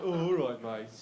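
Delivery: hammed-up Black Country greeting; Black Country accent. How the country hears his people, thick Black Country accent. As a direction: lay the West Midlands accent on thick. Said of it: "that's gotta be the accent".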